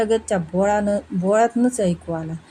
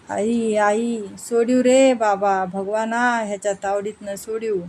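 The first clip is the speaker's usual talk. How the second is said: hammed-up wailing of a beaten wife; fake wailing. Wife fakes a beating so thieves hear. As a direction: stretch each cry out slow, a staged lament. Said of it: "तीच रडत म्हणाली".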